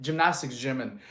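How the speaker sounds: panting between words; winded after push-ups; out of breath. Real, not acted. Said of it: "I'm a little out of breath from counting".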